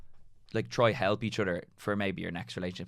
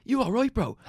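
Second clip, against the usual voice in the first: high, loud mock check-in; imitated concerned mate; 8 dB louder than usual. Mate checking on his crying friend, imitated high and loud.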